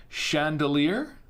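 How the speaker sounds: chandelier said slowly as "shan-duh-LEER" with a rising, questioning end; trying chandelier as shan-duh-leer, unsure; unsure pronunciation attempt. Shown as a demonstration. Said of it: "I don't know how to pronounce this".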